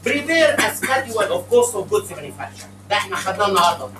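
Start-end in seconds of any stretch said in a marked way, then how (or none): 0.1-2.7 slow dictation. Shown as a demonstration. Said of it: "وراه".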